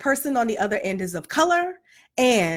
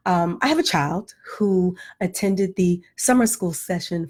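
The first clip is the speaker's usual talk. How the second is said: Claire Huxtable voice; 6 semitones lower than usual. Retold or imitated. Mom calling the school office, in a lightly polished proper voice. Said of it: "in my Claire Huxtable voice".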